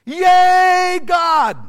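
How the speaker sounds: loud, high cheering of a festive crowd; mock party cheer. Preacher mocking the feasting crowd with a loud whoop. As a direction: ham up the revelers' shout.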